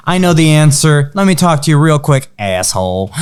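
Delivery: matter-of-fact New Yorker imitation. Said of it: "it's very matter of fact".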